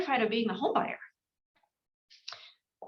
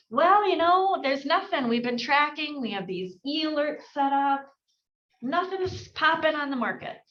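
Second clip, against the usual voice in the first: mock seller; 5 semitones higher, 3 dB louder than usual. Seller voiced in role-play.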